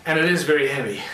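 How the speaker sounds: breathless after holding breath. Real, not acted. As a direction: speak short of breath, lifting heavy stone. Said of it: "I'm out of breath because I'm holding my breath".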